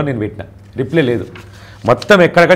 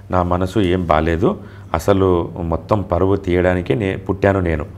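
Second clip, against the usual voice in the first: slow despairing message; 4 semitones lower, slower than usual. Retold or imitated. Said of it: "అని పెట్టింది ఆమె".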